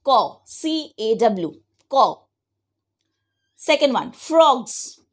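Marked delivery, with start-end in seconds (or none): 0.0-2.2 Caw, C A W spelled out slowly, letter by letter; slow spelling dictation. Shown as a demonstration. Teacher dictating the spelling to children, slow and deliberate. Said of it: "Please circle it".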